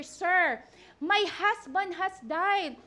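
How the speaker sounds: slow, heartfelt plea of a widow; reading with feeling. Shown as a demonstration. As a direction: draw it out with conviction. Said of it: "babasahin natin ang scripture with feelings".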